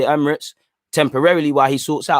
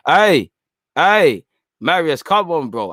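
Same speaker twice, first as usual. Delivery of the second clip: excited call across the room; 2 semitones higher, slower than usual. Real, not acted. Calling out to Marius excitedly.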